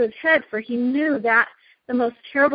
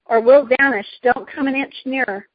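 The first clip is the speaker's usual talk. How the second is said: mildly raised warning voice; understated acted warning; Diggory's cry; 2 semitones higher, 4 dB louder than usual. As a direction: cry a threat, with some restraint. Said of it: "cried Diggory".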